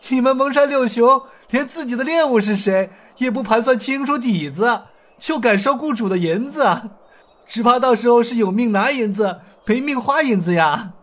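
high laugh into a breezy, mocking lecture; laughing scorn. Hero laughing at the bandits, then warning them mockingly. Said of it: "尹建平哈哈大笑道".

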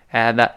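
"at the" with the t swallowed, no burst; unreleased T. Shown as a demonstration. Teacher demonstrates lost plosion to students, silent t. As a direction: tap the tongue for "at", then go straight to "the". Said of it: "舌尖点一下就不发音了".

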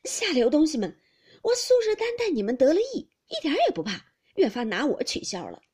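loud, high-pitched cursing; angry scolding. A narrator's reading. Drenched Baoyu scolds the maids at the gate, angrily. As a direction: berate them at the top of your voice. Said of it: "宝玉还骂道".

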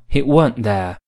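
West Country "weren't" in place of "wasn't"; West Country English. Shown as a demonstration. Teacher showing West Country grammar to learners, West Country accent. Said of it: "而West Country英语中".

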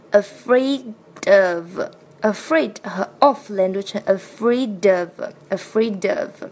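"afraid of" run together as one phrase; linked reading. Shown as a demonstration. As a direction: link "afraid" straight into "of". (连读“afraid of”)

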